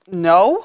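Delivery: a firm hard NO; "No." said as a flat hard refusal; heavy on the no. Retold or imitated. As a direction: lean on "No." hard. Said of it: "Heavy on the no".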